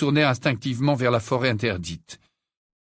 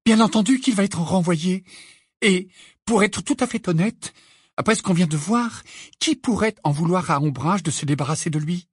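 higher-pitched, insistent argument; heated Hermione; 6 semitones higher than usual. Acted. Hermione arguing that he will be sacked, heated. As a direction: argue it out, voice pitched up.

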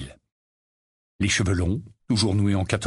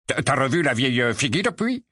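put-on high, halting sleepy old rogue; sleepy grumble; 4 semitones higher than usual. Mondingus waking up at the table, groggy. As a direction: stumble awake, confused.

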